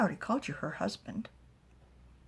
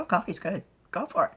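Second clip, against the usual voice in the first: eager encouragement; 10 dB louder than usual. Acted. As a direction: egg her on gladly. Father urging her on.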